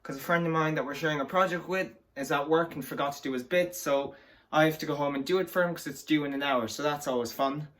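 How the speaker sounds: breathless after a fast walk; out of breath. Real, not acted. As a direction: talk while still out of breath. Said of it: "I am out of breath".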